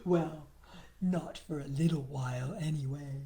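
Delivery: a sly afterthought under the breath; quiet aside. A narrator's reading. Barry adding a sly afterthought, low and soft.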